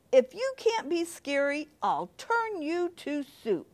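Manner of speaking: lightly voiced witch threatening the little pumpkin. Witch warning Christopher Pumpkin, lightly menacing voice. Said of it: "said the witch as she glared".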